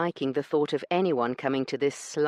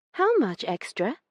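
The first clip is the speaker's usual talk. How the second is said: indignant lady; 10 semitones higher than usual. Acted. Io accusing Branson over the missing stamps, indignant and high.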